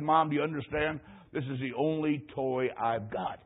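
put-on pleading child. Boy pleading to keep toy.

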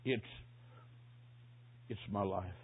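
low, soft, halting dying voice; imitated struggle to speak from a deathbed; hoarse whisper. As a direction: stammer it out weakly with long breaks. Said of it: "Then a hoarse whisper".

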